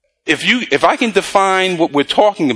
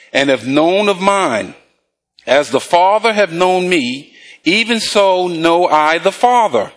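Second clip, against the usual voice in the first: slow, measured Bible reading; preacher's drawn-out read-along; scripture reading; slower than usual. Real, not acted. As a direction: read verses out deliberately for the congregation to follow. Reads scripture aloud to congregation.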